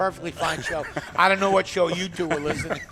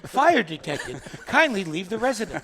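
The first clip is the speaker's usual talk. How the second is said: calming alarm voice; 4 dB quieter than usual. Retold or imitated. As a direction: imitate a very calm smoke alarm. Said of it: "with that very calming".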